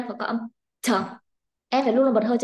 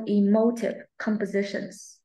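"emotive compositions" slow, MO and SI stressed, falling ending; slow model reading; slower than usual. Shown as a demonstration. Teacher giving a line to repeat, slow "emotive compositions" with stressed MO. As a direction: model e-MO-tive compo-SI-tions slowly. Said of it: "Đọc lại cho cô".

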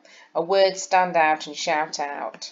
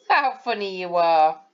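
lightly excited. Shown as a demonstration. Teacher reads with an exclamation mark, mildly lively. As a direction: tease them warmly. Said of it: "with an exclamation mark".

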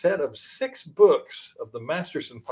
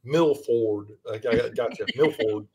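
put-on northern accent; 3 semitones lower than usual. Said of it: "That's a northern accent".

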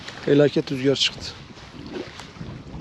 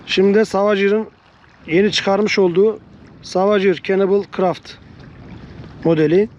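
shouting over wind; 3 semitones higher than usual. Real, not acted. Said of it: "Hava esmeye başladı".

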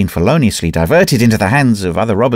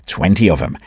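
lower, calm restatement; placid, calm repeat; 4 semitones lower than usual. Acted. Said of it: "said Dravot placidly".

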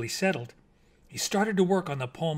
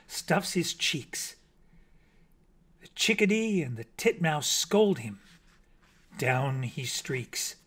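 poem recital; slower than usual. A narrator's reading. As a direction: savour each line like a lullaby. Bat recites his poem.

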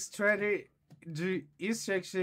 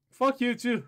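higher, louder comeback; mock angry yell; 7 semitones higher, 6 dB louder than usual. Inspector snapping back at an entrant, mock angry shout. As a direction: fire the insult right back, loud.

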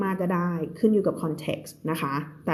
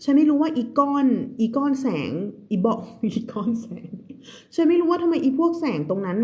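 acted character line; 6 semitones higher than usual. Teacher voices character in Thai.

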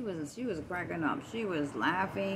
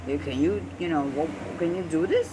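louder, calling to the cashier; 2 semitones lower, 7 dB louder than usual. Retold or imitated. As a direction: flag her down across the counter. Calling cashier over loud.

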